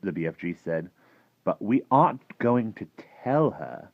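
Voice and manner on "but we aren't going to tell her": high, slow, loud emphasis; emphatic girlish eagerness; excited. A narrator's reading. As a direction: reveal the plan eagerly. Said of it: "Sophie said excitedly".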